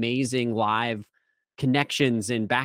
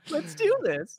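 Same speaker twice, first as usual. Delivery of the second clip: excited high voice. Retold or imitated. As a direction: let the voice jump way up with excitement. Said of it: "as I get more excited, I'm like".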